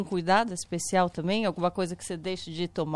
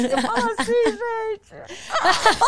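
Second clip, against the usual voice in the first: high, loud laughing mock of own voice; self-mimicry; 12 semitones higher, 5 dB louder, much slower than usual. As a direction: parody how you talk, high and laughing. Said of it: "eu não falo assim".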